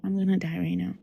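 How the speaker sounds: soft, inward retold dread; resigned thought. Child thinking the doll has her, quiet resignation. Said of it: "Like, I thought".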